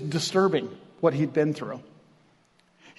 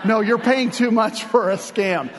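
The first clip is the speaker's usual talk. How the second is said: mock exasperated retort; 3 semitones higher than usual. Preacher teasing a friend about his DNA test, mock exasperated shout. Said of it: "And I'm like".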